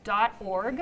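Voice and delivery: slow, with pauses between chunks; deliberately slow. Real, not acted. Host repeating the website for the back, deliberately slow. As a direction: spell it out slowly, piece by piece. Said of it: "I'm just saying it slow".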